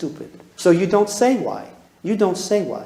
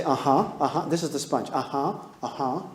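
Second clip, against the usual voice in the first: soft sponge listening. Shown as a demonstration. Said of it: "you do the sponge".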